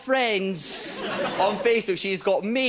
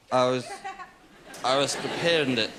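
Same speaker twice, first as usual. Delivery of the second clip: put-on drunk contestant; 6 semitones lower than usual. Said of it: "Over to the blue kitchen, just a guy like".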